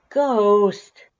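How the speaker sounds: loud, high exasperated yell of the name; scolding shout. Acted. Yelling at the cat for the paw on the mouth. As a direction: shout the cat's name in outrage.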